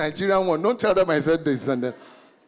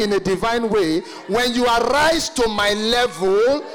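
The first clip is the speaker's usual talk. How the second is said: pompous man of God. Retold or imitated. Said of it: "If he was one of those men of God".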